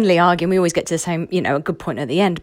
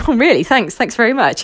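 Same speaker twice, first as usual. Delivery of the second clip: mock-indignant, louder "oh really, thanks"; mock offended; 3 semitones higher, 5 dB louder than usual. Client mock-offended that the coach laughed, louder and indignant. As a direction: play at being hurt by the laughter. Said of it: "you're laughing at my frustration".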